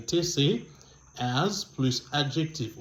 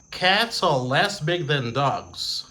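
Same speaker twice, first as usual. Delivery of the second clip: slow dictation; slower than usual. Shown as a demonstration. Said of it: "teacher dictating the example".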